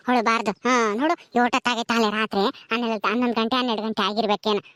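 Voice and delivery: put-on low, hushed coaxing of a baby; soothing mother. Mother coaxing baby to drink milk and sleep, soothing.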